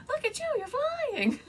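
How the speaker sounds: very high, loud cartoon cheering; Ducky. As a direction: squeal with playful delight for a friend. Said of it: "And Ducky's like".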